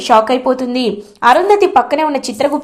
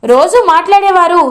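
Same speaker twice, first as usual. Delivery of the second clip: loud demanding question; 6 semitones higher than usual. Acted. Bhagi confronting her sister who runs away, loud and high. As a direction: pitch climbing higher, pressing harder each word. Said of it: "అని అడుగుతుంది".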